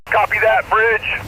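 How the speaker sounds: thin, crackly radio reply; as if heard through a handheld radio; over walkie talkie. Acted.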